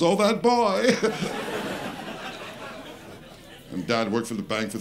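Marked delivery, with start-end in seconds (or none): 0.0-1.0 high, tickled maid's voice; a chuckling housemaid, a touch mock; fond old maid. Comic housemaid tickled by the boy's smack. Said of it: "She goes". 1.0-3.1 high giggle. Retold or imitated. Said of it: "She goes".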